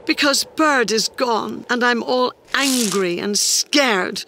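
high little creature voice; upset small creature. Acted. Small Creature tells Mouse why he shouts, high upset voice.

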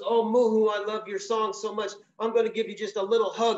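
high, coaxing bear voice wheedling a hug; a big bear sweetly luring the bird; sweet-talking bear. Acted. Storyteller voices the grizzly luring the songbird, high and coaxing.

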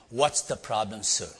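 lightly acted confrontation in one unbroken phrase; mild tough-guy question; big man's challenge. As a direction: ask it firmly, without pauses. Same question repeated, more briskly.

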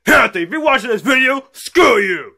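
put-on high-pitched childish defiance; bratty taunt. Kid addressing Hampton through the video, defiant taunt.

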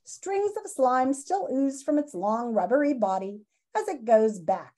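lively storybook read-aloud for students; reading aloud to class. Acted. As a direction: read the chapter to the kids with expression. Teacher reads book to class.

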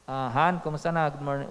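low, soft sweet greeting; gentle mock-sweet morning hello; pleasant wifely tone. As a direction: lightly play a wife greeting her husband nicely. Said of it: "Kung maganda ang tono ni misis".

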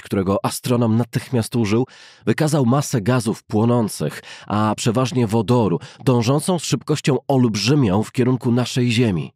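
plain reading voice

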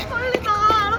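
ordinary talk

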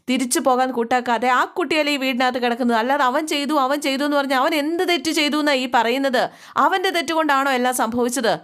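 a storyteller acting out a heated challenge, not shouting; angry question. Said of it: "ദേഷ്യത്തോടു കൂടി ചോദിക്കുകയാണേ".

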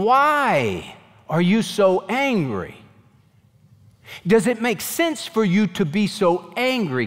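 a patient father reasoning with an angry son; gentle God. Acted. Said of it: "God is gentle with Cain".

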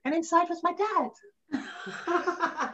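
laughing through the reveal, slowed; slow, amused laughing reveal. Real, not acted. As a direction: chuckle it out slowly. Punchline of childhood memory.

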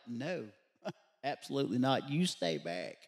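firm refusal, dropping low at the end; lightly voiced guards turning him down; guards refusing. Guards telling him to keep away from the prisoner, firm refusal.

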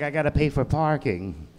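lightly put-on Jewish accent; a hint of a stereotyped Jewish accent. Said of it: "terrible Jewish accent".

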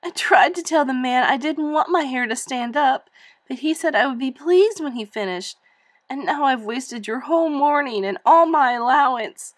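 building to a sob. Acted. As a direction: pour it out until the sob comes. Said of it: "she began to sob".

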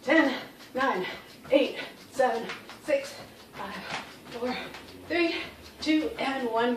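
counting out of breath mid-exercise; breathless count while jumping; doing jumping jacks. Real, not acted. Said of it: "thirty more jumping jacks".

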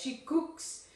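slow "she cooks" with the final s held; verb S sounded. Shown as a demonstration. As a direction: end "cooks" on a clear s. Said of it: "No me puedo olvidar la S".

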